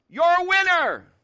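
high, loud, drawn-out shout; dad's demonstrating holler; calling out. Acted. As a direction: shout encouragement across a mountain. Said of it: "Watch this".

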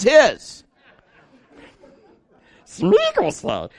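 high, slow creature croon; Smeagol voice. Retold or imitated. Pastor imitating Smeagol about Judas's money, high, slow croon. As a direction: purr it like a greedy little creature. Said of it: "like Smeagol".

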